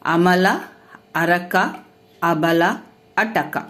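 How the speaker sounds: each word said alone, clear, with pauses; word list. Shown as a demonstration. Teacher reading out three-letter example words, clear and spaced. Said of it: "మూడు అక్షరాల సరళ పదాలు చూద్దాం".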